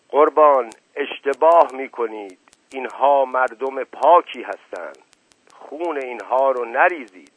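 a loud cry on the first word that fades back; retold shout. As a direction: call out to the shah, half-shouted. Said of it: "فریاد زدم".

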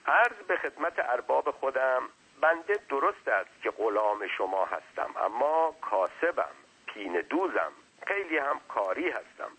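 hint of a humble but wordy underling; deferential servant. Servant making his case to his master, lightly deferential.

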